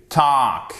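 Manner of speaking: "talk" with a long open vowel. Shown as a demonstration. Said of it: "c'est une voyelle longue".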